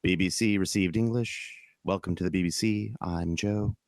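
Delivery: understated posh British newsreader; measured British RP announcer delivery; BBC received English. Shown as a demonstration. Demonstrating his posh character's accent for co-host, BBC received English. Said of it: "I just have to do a standard".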